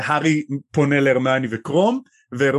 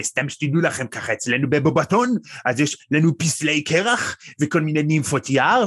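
put-on French accent in Hebrew. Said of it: "מתלוננת במבטא צרפתי".

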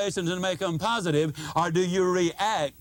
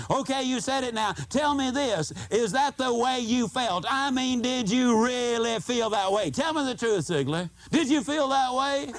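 pressing listener; 3 semitones higher than usual. Retold or imitated. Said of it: "you might also be wondering".

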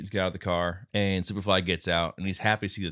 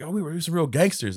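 turtle boasting; 7 semitones higher than usual. Retold or imitated. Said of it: "he's like".

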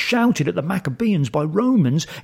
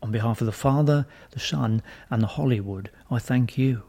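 priestly blessing; 3 semitones lower than usual. Acted.

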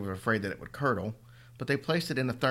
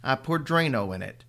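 matter-of-fact; 2 semitones higher, 3 dB louder than usual. Acted. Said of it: "he said matter-of-factly".

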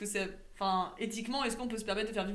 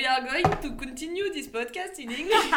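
mock English switch; 3 semitones higher, 5 dB louder, slower than usual. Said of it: "Speaking English".

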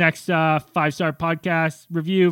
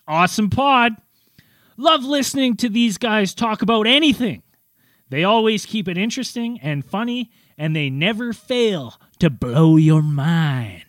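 announcer voice; 4 semitones higher than usual. Acted. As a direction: announce the review, stretching the ending. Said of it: "I do my announcer voice".

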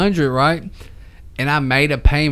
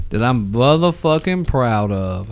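slow, drawn-out MOTHERFUCKING for emphasis; deliberate, proudly stretched-out swearing; 3 semitones lower, slower than usual. Real, not acted. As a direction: lean slowly on "motherfucking proud". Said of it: "I'm gonna say it like that".

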